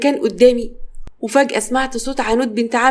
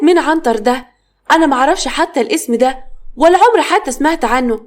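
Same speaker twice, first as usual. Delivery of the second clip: puzzled; 3 semitones higher than usual. Acted. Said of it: "وهي مستغربة الاسم".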